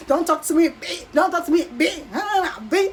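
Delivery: mock outburst, "B" cut off short; holding back the B. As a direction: snap "Don't talk to me", then hold the "B" back, laughing. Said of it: "I had to hold that B".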